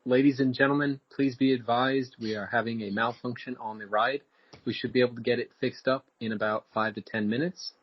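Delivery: calm announcement over the intercom. Acted. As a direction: ride PA announcer. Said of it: "Alex, you be the intercom".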